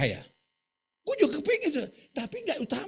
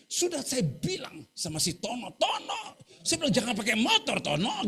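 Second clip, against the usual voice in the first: laughing; 2 semitones higher than usual. Retold or imitated. Retelling scolding Tono.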